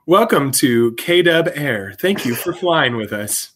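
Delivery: slow, lightly voiced cabin announcement; flight attendant voice. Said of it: "your best flight attendant voice".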